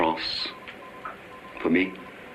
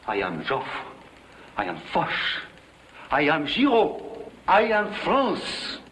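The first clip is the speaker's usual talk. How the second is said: proud proclamation; 4 semitones higher, slower than usual. Acted. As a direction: build each claim bigger until you are France itself. Giraud proclaims his own grandeur.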